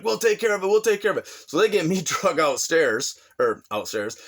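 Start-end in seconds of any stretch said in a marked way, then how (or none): 0.0-1.3 cousins calming him. Retold or imitated. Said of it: "They're like".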